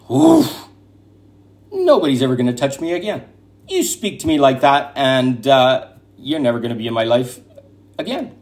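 sharp gasp, then a quick, firm vow; a gasped oof, then a fast, steely boundary; firm declaration. Acted. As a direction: draw a hard line, fast and sure. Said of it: "you'll be able to say".

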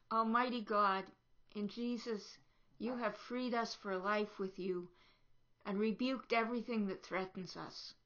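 quiet, measured public prayer; softened, reverent praying voice. Real, not acted. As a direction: lead the congregation in prayer, phrase by phrase. Leads a spoken prayer.

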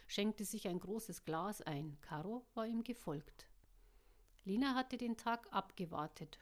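steady audiobook reading with voiced characters; story narration. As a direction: read it like an audiobook. Audiobook reading before own chat.

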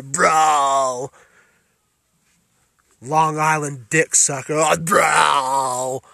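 mock Long Island tough guy, shouting insults; mocking East Coast bro. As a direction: ham up a loudmouth New York bro, yelling. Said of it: "You East Coast fucking".

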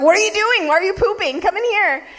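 high-pitched, laughing call; squealing playful call through laughter; laughing tease. Retold or imitated. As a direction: giggle through a teasing invite. Teasing boyfriend in shower.

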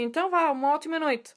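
high, friendly sign-off; cheery farewell. Retold or imitated. Gym member leaving for the night, cheery.

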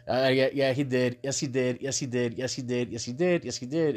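emphatic yes he did, each one pushed; insistent repetition. Real, not acted. Insisting to audience, repeated.

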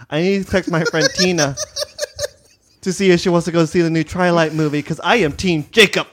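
put-on ditzy mall teen. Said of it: "And I was like".

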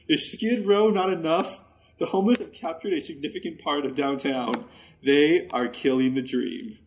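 reading a rant aloud with mock gravity; dramatic reading. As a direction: read it like a brooding late-night diary. Reads brother's Facebook rant aloud.

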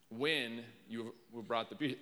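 "When" drawn out and set apart; slow down and lean on "When"; emphatic "When" opening a scripture reading; stress on "When". Shown as a demonstration. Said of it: "put an inflection on that one".

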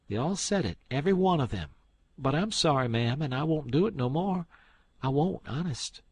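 distressed apology. Acted. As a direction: plead and apologise fast. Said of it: "looked distressed".

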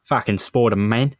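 lightly hammed-up Australian hunter; mock Australian swearing; Australian accent. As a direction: do a broad Aussie hunter. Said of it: "I'm sticking with Australian".

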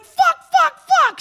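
high, loud frantic cursing; a panicked girlfriend swearing over a fallen partner. Retold or imitated. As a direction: blurt it out in a panic. Panics as he thrashes.

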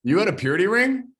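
can't believe what she just heard; surprised disbelief. Real, not acted. Host gasps at guest's purity ring confession, astonished.

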